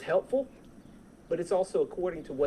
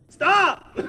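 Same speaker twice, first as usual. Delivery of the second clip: sudden high, loud yell of Stop; startled passenger shout; panicked yell; 12 semitones higher, 15 dB louder than usual. Retold or imitated. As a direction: scream Stop like a car is coming. Panicked passenger yelling at driver.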